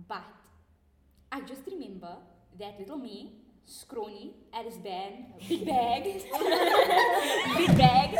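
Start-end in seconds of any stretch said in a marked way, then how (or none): 5.5-8.1 big bag in a very high excited squeal; squeaky emphasis. Retold or imitated. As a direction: squeal it like a kid. Exaggerated childhood self description.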